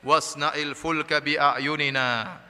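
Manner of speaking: very slow, measured Arabic recitation; Quran recitation. Acted. Preacher quotes God's command to Nuh, slow recitation. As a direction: stretch each word of the verse.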